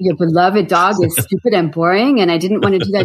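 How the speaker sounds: lightly imitated French-accented agent; a touch of French accent, reluctant confession; mild French accent on a retold confession; Stephanie's French accent. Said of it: "I do her accent".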